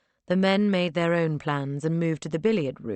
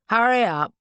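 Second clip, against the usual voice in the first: impatient; 7 semitones higher, 9 dB louder than usual. Acted. Impatient at door.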